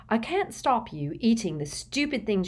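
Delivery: breathy whisper. A narrator's reading. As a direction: whisper it sharply. Unvoiced line.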